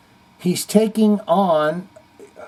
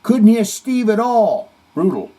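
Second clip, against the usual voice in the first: reading a comment; 7 semitones higher, 5 dB louder than usual. Retold or imitated. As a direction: boom the comment out.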